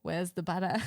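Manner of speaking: lightly imitated Australian accent; Aussie accent. Co-host quoting the practice phrase, light Aussie accent. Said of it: "much of an Aussie accent".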